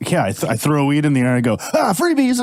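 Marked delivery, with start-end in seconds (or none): 1.7-2.4 high, hammed-up shout of freebies; high cheerful giveaway cry; mock freebies call. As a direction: play the generous weed thrower. Throwing weed, acting out.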